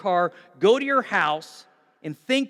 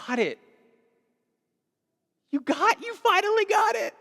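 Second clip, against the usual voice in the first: proud exclaiming; 13 semitones higher than usual. Retold or imitated. Jesus rejoicing over Zacchaeus, building to a joyful shout. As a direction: swell up into a proud, delighted cry.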